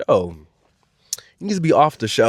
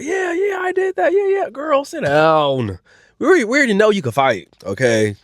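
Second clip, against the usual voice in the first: much higher gloating squeal; mock Lex brag; 10 semitones higher than usual. Host mimicking Lex gloating, high and squealing. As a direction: squeal it like a cocky winner. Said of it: "Lex is like".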